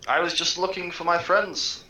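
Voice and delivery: high-pitched, timid pleading voice; meek kobold. Acted. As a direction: explain yourself meekly to the guards, pitched high. Player answers goblins as grovelling kobold.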